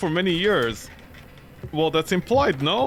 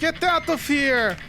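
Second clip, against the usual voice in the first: mock ghost shout; 8 semitones higher, slower than usual.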